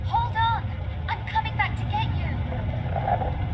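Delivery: calling out. Acted. Lara shouting to trapped Werner, urgent. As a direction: call out that help is coming.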